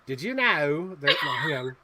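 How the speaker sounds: slow, hesitant Australian accent attempt. Shown as a demonstration. Host testing an accent on a movie fact, Australian accent. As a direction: draw it out in amateur Australian. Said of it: "how do you say that in an accent".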